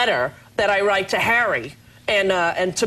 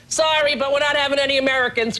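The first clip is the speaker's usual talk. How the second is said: higher-pitched mock brush-off; retold refusal; 4 semitones higher than usual. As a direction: imitate a director turning down a caller. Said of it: "He's like".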